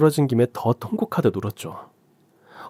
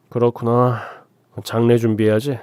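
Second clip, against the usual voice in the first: emotionless; 4 dB louder than usual. Acted. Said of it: "감정 없이 말을 하더라고요".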